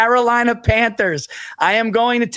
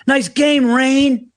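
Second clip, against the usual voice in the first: mock heckle; 5 semitones higher, much slower than usual. Heckling the quarterback at the game, mock taunt. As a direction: needle the player from the stands. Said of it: "we should fuck with him when we go".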